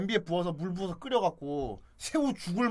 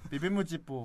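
put-on Japanese accent Korean; 4 dB quieter than usual. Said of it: "일본인들은 발음하기 힘들지 않을까?".

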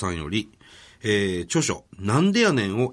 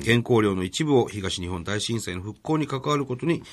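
even, measured formal read-out; reading a letter aloud. Real, not acted. Radio host reads an author's thank-you letter to co-host, formal read-out. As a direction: read the polite letter out, clause by clause.

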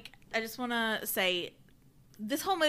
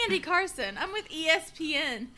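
high, hammed-up reporter voice, laughing; mock sports reporter; 6 semitones higher than usual. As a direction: announce yourself like a TV sports reporter. Mock ESPN reporter introduction.

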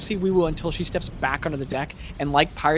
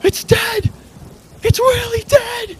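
high, very loud shouts from the deck; shouting crew; 10 dB louder, slower than usual. Acted. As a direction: shout it out for the whole ship to hear. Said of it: "shouts that go".

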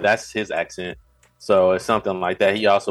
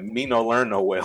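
mock dumb caveman voice; 2 semitones higher, 3 dB quieter than usual. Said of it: "and I was like".

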